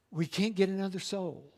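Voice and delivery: We can't get another soul, hushed and heavy; soft, grave first take. Shown as a demonstration. Preacher warning the congregation softly, hushed. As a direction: drop the voice to a hush. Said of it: "repeated line".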